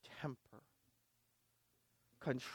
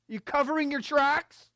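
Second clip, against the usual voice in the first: pointed question; 11 semitones higher, 9 dB louder than usual. Acted. Preacher questions the church.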